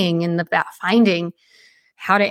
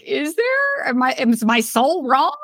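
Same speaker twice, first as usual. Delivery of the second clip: doubting herself; 5 semitones higher than usual. Retold or imitated. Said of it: "I was like".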